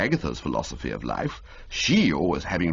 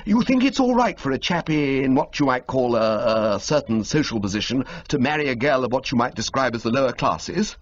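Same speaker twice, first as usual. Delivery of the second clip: a touch higher, quick and eager questioning; brisk young gentleman fishing for approval; lightly voiced young toff; 6 semitones higher than usual. Young Bertie sounding out his friend's uncle, lightly voiced eager toff.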